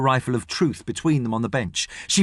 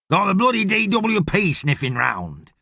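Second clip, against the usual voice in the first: lightly voiced boss, pitched up; grumbling boss; 6 semitones higher than usual. Boss complaining to his workers about inspectors, grumbling.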